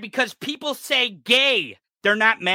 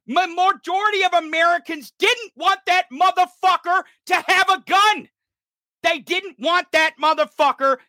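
high, indignant rant; real exasperated outrage; angry insistence; 4 semitones higher than usual. Real, not acted. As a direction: push the point with raised pitch. Indignant argument about the gunman.

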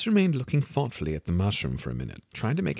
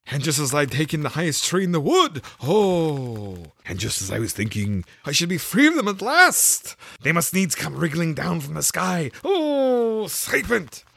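fussy pigeon; 9 semitones higher, 6 dB louder than usual. A narrator's reading. The pigeon complains to Alice about serpents, high and fussy.

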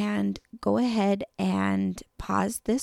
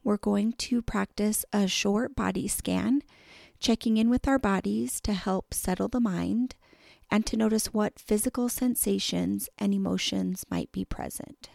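calm, measured meditation voice with long pauses; unhurried guiding, leaving room to breathe between phrases; guided meditation; 4 dB quieter than usual. Real, not acted. Host leading listeners through a body scan, calm meditation voice.

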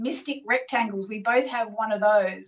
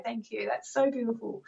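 softly moved; 6 dB quieter than usual. Real, not acted. Moved by caller's praise.

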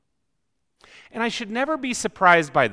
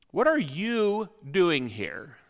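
slow rude question; 3 dB quieter, slower than usual. Shown as a demonstration. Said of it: "depending on the context and the inflection".

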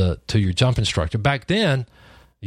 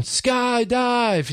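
high, long excited scream of the word; screaming skydive; 13 semitones higher than usual. Retold or imitated. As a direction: yell it out pumped and scared. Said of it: "And I'm going".

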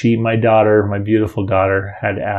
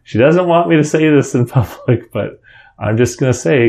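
raised, half-laughing pulpit voice; leader's announcement; 5 semitones higher, 4 dB louder than usual. Retold or imitated. Church leader admitting to the congregation, playfully raised. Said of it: "he said".

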